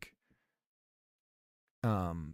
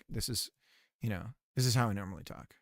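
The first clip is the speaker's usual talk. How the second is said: softer, quicker everyday talk; normal indoor voice; 4 semitones lower, 6 dB quieter, faster than usual. Shown as a demonstration. Streamer showing his quieter everyday voice, soft and relaxed. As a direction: drop the streamer projection and just chat. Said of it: "I could talk like this".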